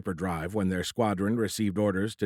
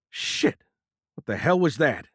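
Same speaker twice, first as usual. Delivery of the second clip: startled, loud and raised; startled shout; 6 semitones higher, 3 dB louder than usual. A narrator's reading. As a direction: react to the sudden blast. Sudden shockwave hits fighter.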